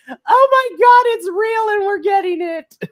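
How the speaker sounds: high, loud fan scream; shrieking with joy over the match; excited shout. Retold or imitated. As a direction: scream it like you just lost your mind. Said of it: "I was like".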